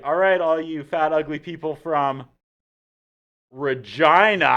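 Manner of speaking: loud, high heel promo yell at the crowd; mocking heel taunt. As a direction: sneer it like a villain insulting the town. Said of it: "And we were all like".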